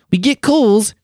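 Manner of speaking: high-pitched mock Australian accent. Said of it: "that's my Australian accent".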